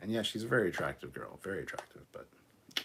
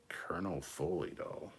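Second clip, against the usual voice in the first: slow whisper; 3 semitones lower, 5 dB quieter, slower than usual. Shown as a demonstration.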